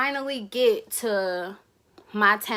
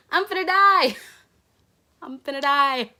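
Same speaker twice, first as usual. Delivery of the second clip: laughing despair; 6 semitones higher, 8 dB louder than usual. Real, not acted. Laughing disbelief at being pulled over.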